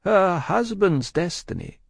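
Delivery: slow, high, composed Madame. A narrator's reading. Madame answers her husband about destiny, slow and composed. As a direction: measure it out with composure. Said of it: "with her usual composure".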